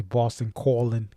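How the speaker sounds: Boston accent, Calling said as Callin'; Boston accent dropping the g in Calling. Shown as a demonstration. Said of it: "my Boston accent comes out".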